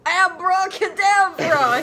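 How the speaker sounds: slow, high, loud spell call; yelled. Acted. Vampire yelling a spell at Snape, slow. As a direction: yell the spell. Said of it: "he yelled at Snape".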